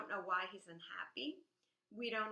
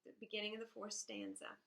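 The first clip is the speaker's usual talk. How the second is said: poem quote. Shown as a demonstration. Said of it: "It says".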